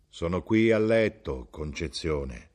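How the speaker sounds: lightly voiced sick man from the dark; a hint of a voice from underground, slowing at the end; subterranean voice. Sick husband calling from his bed in the dark, subterranean voice. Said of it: "Era sotterranea".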